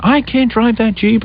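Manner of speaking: slow, high-pitched whine; drawn-out mocking complaint; mock complaining. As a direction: imitate a wife whining on and on. Imitates wife's complaint.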